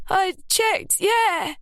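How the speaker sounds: insistent. A narrator's reading. Ruby insisting to doubtful Lily she checked. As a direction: hammer it home.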